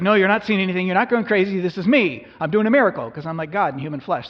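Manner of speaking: Jesus called out loud over the storm; Jesus calling out. Acted. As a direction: call across the water, loud and reassuring. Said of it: "And he's like".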